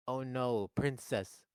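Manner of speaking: lightly voiced worried comic impression; mild mock distress; Charlie Day. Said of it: "This is my Charlie Day impression".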